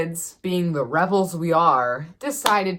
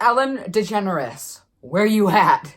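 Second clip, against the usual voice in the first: calling out; 4 semitones higher, 5 dB louder than usual. Retold or imitated. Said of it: "they're like".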